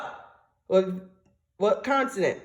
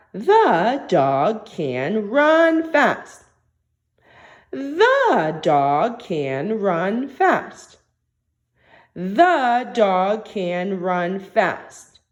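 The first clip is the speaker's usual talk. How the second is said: each word spaced out, very slow; very slow dictation; much slower than usual. Shown as a demonstration. Teacher to young students, dictating the sentence very slowly. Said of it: "So go back".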